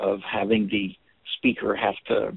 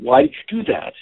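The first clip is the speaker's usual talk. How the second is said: high, louder "Why did you do that?"; accusing question; 10 semitones higher, 4 dB louder than usual. Shown as a demonstration. Teacher voices the accusing question, high and pushy. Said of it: "Instead of saying".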